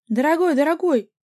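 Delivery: high, loud wailing on ДОРОГОЙ; keen over him; wailing lament. A narrator's reading. The girlfriend wails over her dear boyfriend, high and loud. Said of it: "прочитала подружка".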